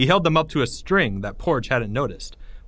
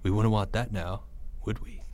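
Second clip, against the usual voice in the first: quiet menace; 3 semitones lower, 8 dB quieter than usual. Acted. Villain's taunt ending in quiet.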